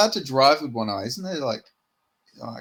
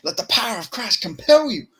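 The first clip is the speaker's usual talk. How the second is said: higher, louder exorcist cry; mock exorcist; 9 semitones higher, 5 dB louder than usual. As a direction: hurl it like a priest throwing holy water. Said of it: "he says".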